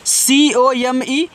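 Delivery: slow, careful spelling of P L E A S E; letters spelled out one by one, slowly. Shown as a demonstration. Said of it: "spelling letters".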